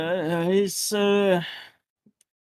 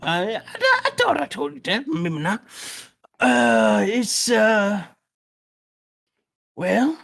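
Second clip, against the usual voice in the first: put-on old man voice. GM plays old man NPC.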